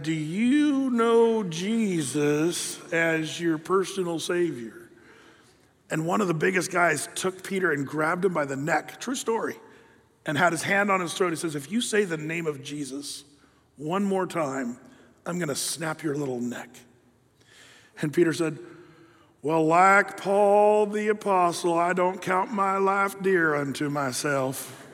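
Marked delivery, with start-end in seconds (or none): 0.0-4.9 very slow drawled repeat, like Eeyore; slow hick drawl. Retold or imitated. Peter repeats his question to the huge men in a slow hick drawl. 11.5-16.7 low, soft threat; quiet menace. Retold or imitated. Big man grips Peter's throat, threatening him quietly. 19.4-24.9 slow, dragging Eeyore drawl; slow hick drawl. Retold or imitated. Peter answers the threatening man in a slow hick drawl.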